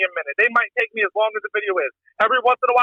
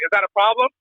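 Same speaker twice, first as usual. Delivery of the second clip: menacing. Retold or imitated. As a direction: ask it like a veiled threat. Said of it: "And I'll say it real, like, menacing".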